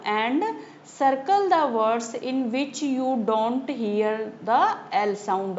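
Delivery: measured recitation, very slow; slow reading aloud. Acted. Teacher reading the poem to her class, slow and measured. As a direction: read each word slowly and clearly for the class. Reads workbook instruction aloud.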